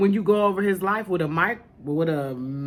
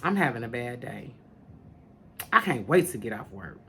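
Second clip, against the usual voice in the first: mocking a gloomy complainer; 7 semitones lower, 5 dB quieter than usual. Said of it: "we speak these things on ourselves".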